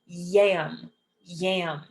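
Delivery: "yam" slow with a drawn Y onset; modelled Y. Shown as a demonstration. Teacher showing the Y sound, slow drawn "yam". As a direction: stretch the opening glide of "yam". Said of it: "The Y makes a Y sound".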